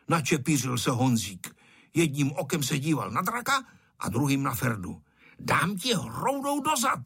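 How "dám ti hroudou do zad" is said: high mock-angry child's threat; shouting threat. A narrator's reading. Bully threatens to hit him with a clod, mild mock shout. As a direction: throw the line like a mild pretend shout. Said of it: "křičel Ferda".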